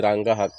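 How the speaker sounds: রাঙ্গা হাক said the Barisal way, with h for s in হাক; Barisal dialect. Shown as a demonstration. Showing village crops to viewers, Barisal dialect word. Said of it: "রাঙ্গা হাক আমাদের বরিশাল ভাষায় বলে".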